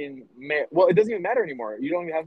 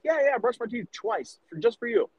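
higher, lightly voiced kid fibbing sweetly; mock son voice; 8 semitones higher than usual. Dad imitating his son claiming he brushed, lightly mocking kid voice. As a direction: play the eleven-year-old insisting he brushed. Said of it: "Devon fucking lies".

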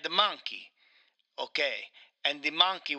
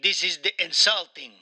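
offended Italian, hammed up; Mario with Italian accent. Mario objects to the game's voice, in an indignant Italian accent. Plays Mario being interviewed.

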